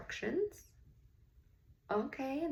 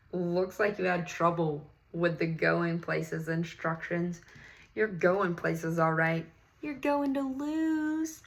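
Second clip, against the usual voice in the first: put-on taunting kid; 4 dB louder than usual. A kid taunting Maya and Ralph, mildly mocking. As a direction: tease them like a smug schoolyard rival. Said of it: "One of the kids laughed".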